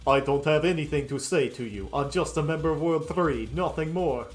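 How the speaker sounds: lightly put-on Russian accent; a vague Scottish-or-Russian accent. Voicing the Colonel's refusal to talk, light Russian accent. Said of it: "a Scottish or Russian accent or something".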